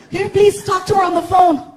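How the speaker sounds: high-pitched imitation of a pleading girl; gushing female fan. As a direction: beg in a girlish high voice. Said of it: "this girl jumped into the car".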